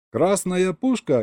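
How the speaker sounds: high, slow eureka on Красная пушка; Красная пушка said slow and high, dawning idea; sudden realization. A narrator's reading. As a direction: crew member hitting on the solution. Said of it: "догадался Серёга".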